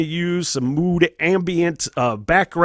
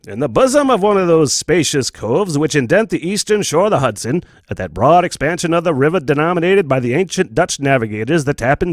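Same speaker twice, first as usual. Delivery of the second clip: a hint of an old-fashioned radio storyteller, a touch louder; old-timey narrator voice; 3 dB louder than usual. Shown as a demonstration. Podcaster demoing his second reading voice for Sleepy Hollow, lightly old-timey. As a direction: read it like a vintage Disney narration, lightly done. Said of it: "this is the other voice. Kinda like my old-timey voice".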